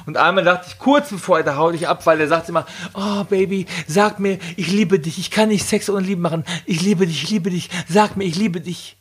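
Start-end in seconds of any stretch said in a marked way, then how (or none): 2.9-9.0 higher-pitched, lightly imitated needy lover; mock pleading lover. Partner begging for love during sex, lightly mocked pleading. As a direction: plead for love in a put-on swoon.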